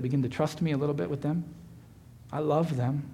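hushed, patient comfort; God's gentle whisper. Acted. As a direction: speak softly as a loving God, not a true whisper. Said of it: "where God just kinda whispers".

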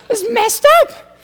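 very high, slow, loud mock North Dakota drawl. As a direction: stretch it out in the folksy North Dakota voice. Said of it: "turned out to be from North Dakota".

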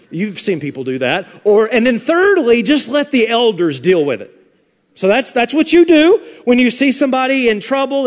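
mock-earnest sarcastic advice; thick sarcasm. Preacher giving the congregation absurd advice on others' sin, thick sarcasm. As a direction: lay the sarcasm on thick, as if teaching it seriously. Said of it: "do you get the sarcasm".

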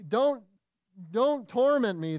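imitated cry. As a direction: cry it out like a tormented demon, lightly acted. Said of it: "that the demons cry out".

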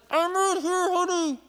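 high, gentle voice of a mother; lightly voiced mom comforting her boy; soothing mom. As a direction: reassure him like his mom through the door. Mom answering trapped son.

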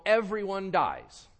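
loud, high, slow proclamation; breezy stock answer. Acted. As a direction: proclaim it slowly as an obvious general truth.

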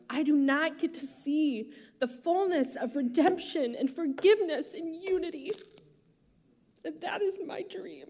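fighting back real tears; emotional. Real, not acted. Pastor sharing her dream with the congregation, choked up. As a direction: voice rising as she chokes up. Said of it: "I'm more emotional apparently today than usual".

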